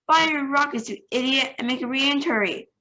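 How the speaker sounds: shouting. Acted. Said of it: "shouted the president".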